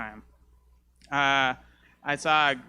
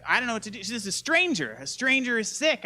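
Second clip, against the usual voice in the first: panicked; 7 semitones higher than usual. Retold or imitated. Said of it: "And I was like".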